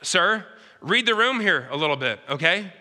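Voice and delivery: rising to high, loud cries of why me; the widow losing patience with the prophet; exasperated widow. Retold or imitated. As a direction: build from sharp complaint to a desperate outcry. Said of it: "Maybe she's going".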